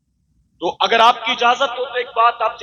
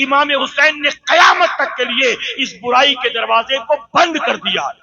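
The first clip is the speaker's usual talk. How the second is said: fiery preaching. Acted. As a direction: thunder it out to the congregation. Fiery sermon climax, rising volume. (जोशीली तक़रीर, ऊँची आवाज़ में ललकारते हुए)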